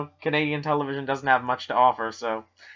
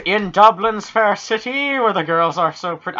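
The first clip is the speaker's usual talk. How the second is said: put-on Irish accent; 5 semitones higher than usual. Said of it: "I just ripped off Jacksepticeye".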